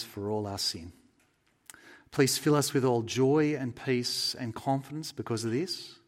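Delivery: measured congregational prayer; sincere closing prayer. Real, not acted.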